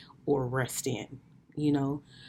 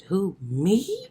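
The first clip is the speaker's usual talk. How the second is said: mock shocked disbelief; 5 semitones higher, 8 dB louder than usual. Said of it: "I said".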